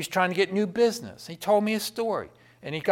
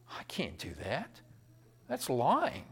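acted hushed, hesitant objection; much softer retold reply; quiet refusal; 4 semitones lower, 9 dB quieter, slower than usual. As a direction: softly decline on principle. Accountant quietly refusing bosses.

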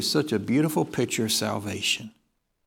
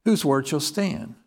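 ordinary delivery

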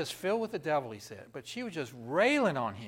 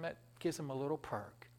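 ordinary delivery

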